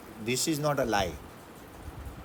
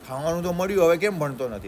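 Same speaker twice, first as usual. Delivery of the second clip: mildly raised self-scolding; scolding oneself; 5 semitones higher, 4 dB louder than usual. Retold or imitated. Student scolding himself to study, mildly raised. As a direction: mildly chide yourself to get to work. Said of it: "એવું કહેવાનું".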